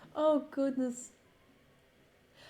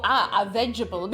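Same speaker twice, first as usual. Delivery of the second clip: retold delight; 3 semitones lower, 4 dB louder than usual. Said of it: "you just hear me go".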